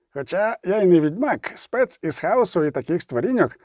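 lightly voiced dwarf, curious; a hint of an inquisitive dwarf; talkative dwarf. Zoltan questions the witcher.

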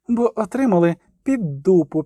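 put-on a growled girl's snap; barked. A narrator's reading. Ciri snaps at the merchant, gruff snap. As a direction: bite the words off. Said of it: "гаркнула Цірі".

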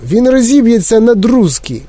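high-pitched panicky warning; narrated panic, pitched well up; alarmed cry. A narrator's reading. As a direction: cry out that disaster is coming. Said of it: "закричав дідунь Джо".

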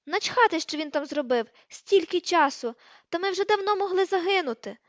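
loud, high-pitched angry outburst; shrieking tirade. A narrator's reading. Hermione raging that they could have died, shrieking. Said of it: "вирискнула вона".

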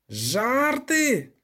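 high, outraged goat roar; furious roar. A narrator's reading. Goathorn roars at the jokers, furious. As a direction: roar the word back at him. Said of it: "люто проревів Козиріг".

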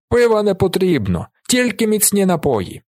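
Willi shouting his order. A narrator's reading. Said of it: "кричить він господареві".

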